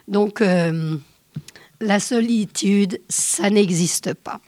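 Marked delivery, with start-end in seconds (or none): 1.8-4.4 lent et posé, mot à mot; lentement détaché. Shown as a demonstration. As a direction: poser chaque mot, sans hâte. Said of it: "cette très jolie chanson". (titre de la chanson annoncé lentement à l'antenne)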